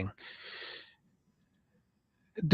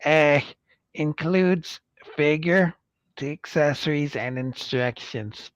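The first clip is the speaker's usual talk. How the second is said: nerd voice. Acted. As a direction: read the fine print like a nerd. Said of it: "and in Nerd Voice here".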